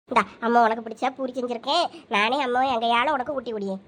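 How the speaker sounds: low, gentle coaxing of a grieving son; tender mother. Acted. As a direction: soothe him like a mother holding back tears. Mother coaxing tearful son to eat.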